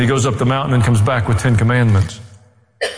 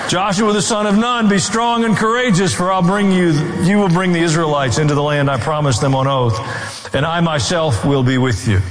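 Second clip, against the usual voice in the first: voice of God; 3 semitones higher than usual. Acted. God's command voiced to Joshua.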